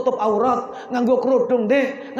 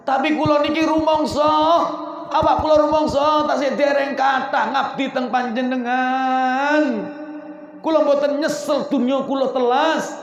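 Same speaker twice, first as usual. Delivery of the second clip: pleading; 2 semitones higher than usual. Acted. Khadijah pleading to the Prophet.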